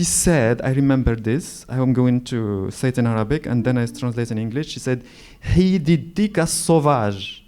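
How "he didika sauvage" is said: put-on quoting cousin, sauvage with a French accent, slower; "sauvage" said the French way, uvular r, slowed down. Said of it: "She said it with a French accent".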